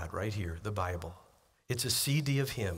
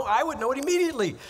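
emphatic rising exclaim; 12 semitones higher, 6 dB louder, much faster than usual. Real, not acted. Emphatic point about wife's voice.

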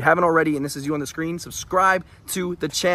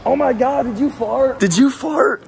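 loud, high fake outrage; loud mock accusation; 10 semitones higher than usual. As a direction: call it out to the whole airport. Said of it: "where I embarrass her".

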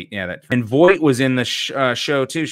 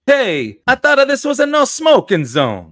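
indignant shout; 8 dB louder than usual. Acted. New character shouts at fleeing villains.

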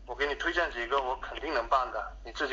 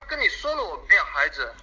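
irritated snap; 3 semitones higher, 6 dB louder than usual. Acted. Repeated annoyed answer.

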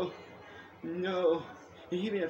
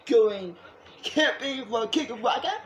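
excited; 4 semitones higher, 6 dB louder, slower than usual. Real, not acted. Excited talk about camp.

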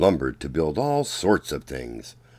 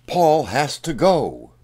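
angry demand; 6 semitones higher, 8 dB louder, slower than usual. A narrator's reading. Townspeople demand Paul leave.

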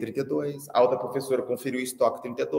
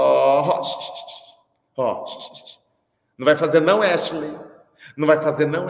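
mock threatening teacher; 4 dB louder than usual. Threatening pupils before trip.

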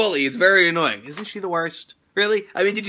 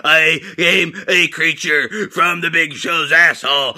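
creature voice; 4 semitones lower, slower than usual. Acted. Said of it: "he's gonna be the creature".

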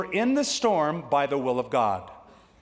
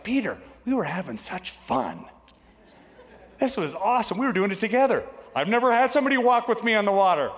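delighted Jesus; 6 semitones higher than usual. Acted.

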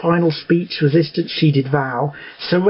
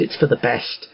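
soft, low sigh of resignation; sighing, resigned; 5 semitones lower, 5 dB quieter than usual. A narrator's reading. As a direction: let the words fall away on a breath. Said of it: "she sighed".

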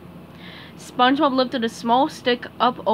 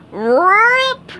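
ripping sound; 11 semitones higher, 9 dB louder than usual. A narrator's reading. Narrator voicing the pants tearing.

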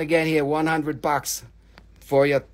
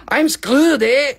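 laughing; 7 semitones higher, 6 dB louder, slower than usual. Real, not acted. Laughing at own bad luck.

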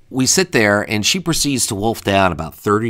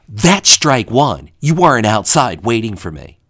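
scolding; 5 dB louder than usual. Retold or imitated. Date scolding him on arrival.

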